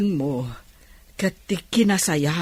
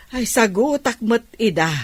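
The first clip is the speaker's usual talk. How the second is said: laughing; 5 semitones higher than usual. Acted. Laughing while answering.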